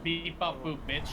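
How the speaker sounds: flat beeping robot. Pretend. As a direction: beep it like a robot. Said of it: "turning you into a robot".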